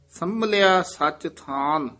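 ਸੰਮਲਿਆ ਸਚ ਥਾਨ then a rest; measured phrase, set apart after ਥਾਨ; pause after phrase. Shown as a demonstration. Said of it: "ਇੱਥੇ ਵਿਸਰਾਮ ਹੈ".

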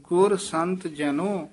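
slow, measured phrase halting on ਜਨੋ; slight halt after ਜਨੋ. Shown as a demonstration. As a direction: draw it out up to ਜਨੋ, then hesitate. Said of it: "ਇੱਥੇ ਠਮਕ".

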